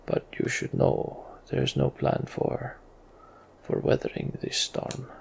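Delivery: hushed, weary king's voice; a hurt king admitting there is no plan; breathless, grave warning; wounded king. Acted.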